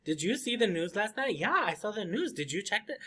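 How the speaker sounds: soft, chattering back-and-forth with swooping pitch; talkative person. Acted. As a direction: chatter on, question after question.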